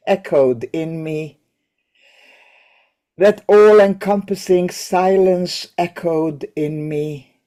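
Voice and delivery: measured recital, pausing after each line; poem reading. Acted. Teacher reads the English translation of the poem, measured poem reading. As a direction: read the translated verse with care, letting each phrase settle.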